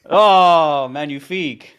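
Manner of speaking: mock French chef accent; hammed-up French "magnifique". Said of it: "He's, like, French".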